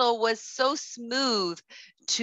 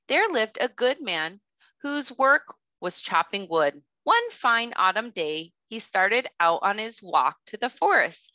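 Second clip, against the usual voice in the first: gentle, even storybook narration; reading to children. A narrator's reading. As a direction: tell it calmly to a circle of little kids. Reads story to kindergartners.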